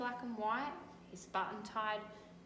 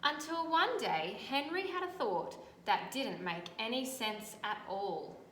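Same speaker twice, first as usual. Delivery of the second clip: louder, dramatic "until one day" opening; storybook reading; 3 dB louder than usual. A narrator's reading. Teacher reading to children, building suspense. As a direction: build suspense for young listeners. Reading picture book aloud.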